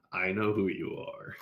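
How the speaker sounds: slow, measured retold confrontation; mock-ominous. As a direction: draw it out like a knowing boss. Boss leans in to confront him.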